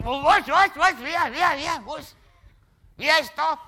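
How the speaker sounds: high flustered stammering; startled. Acted. A startled figure in paradise woken by the call, high flustered stammer. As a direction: jolt awake and stammer.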